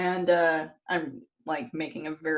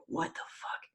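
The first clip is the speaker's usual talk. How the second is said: hushed, whispery mock fury; Odin; 11 dB quieter than usual. Retelling Odin waking up pissed, hushed mock anger. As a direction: act pissed off under your breath, almost voiceless. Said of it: "and he's pissed".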